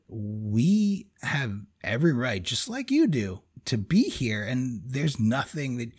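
slow, deliberate, defiant, lightly voiced; firm retold stand. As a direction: lay it down slowly, word by word, holding your ground. Standing nose to nose with stranger.

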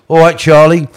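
high, loud mimicked greeting; acting out Reg. Reg greeting Charlie down the phone, mimicked high voice. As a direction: pipe up high and loud, imitating.

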